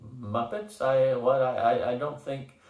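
flustered broken stammer. Acted. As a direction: trip over the words, caught off guard. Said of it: "the ref stammered".

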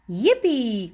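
gleeful yippee. Acted. Stompers whooping at the splash, gleeful. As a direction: whoop it like a kid landing in a puddle. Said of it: "cried the stompers".

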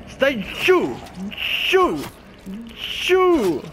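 high, loud commands to get down; frantic shout of get down. Real, not acted. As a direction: yell it out in panic. Yelling at zombie to stay down.

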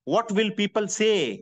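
very slow, each word weighed; slow emphasis. Acted. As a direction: drag it out for weight. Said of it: "slow emphatic motivational line". (धीरे, ज़ोर देकर)

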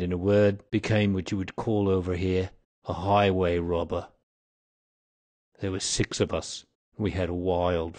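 lightly voiced old man, grimly reminiscing; a hint of a bitter, dying old outlaw; confessing old man.

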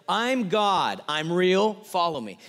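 loud mock-divine proclamation, easing at the end; playful heavenly announcement; God calling down. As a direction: call it out to the whole world as God. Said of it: "Stick your head out and say".

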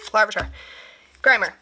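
short of breath, lungs sore; breathless from a sore chest. Real, not acted. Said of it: "Sorry if I sound like I'm out of breath".

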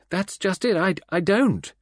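high, stammering near-wail. A narrator's reading. Ursula insisting she doesn't know, almost wailing. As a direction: plead it, voice breaking into a wail. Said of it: "almost in a wail".

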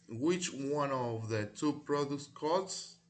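slow, careful reading of the question, word by word; slow read-aloud. Shown as a demonstration. Teacher reading to students, slow and clear. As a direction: read it slowly so students can follow. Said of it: "Y tienen por aquí".

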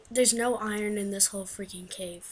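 whispered grumble; whispering. Real, not acted. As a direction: grumble under your breath. Muttered complaint while mining.

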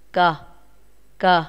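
Cờ said short and clear, repeated; model the sound. Shown as a demonstration. Teacher shows pupils the sound Cờ, crisp. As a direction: give Cờ crisply for the class. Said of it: "chúng ta phát âm là cờ".

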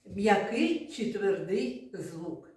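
slow, even naming of «М'який чи твердий звук»; teacher announcing a game name; slow announced title. Shown as a demonstration. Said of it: "І перша гра називається".

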